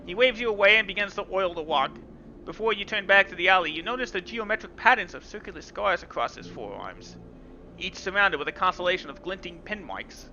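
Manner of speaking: measured, even storyteller read; story narration. A narrator's reading. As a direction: read the game text like an audiobook. Reads visual novel narration.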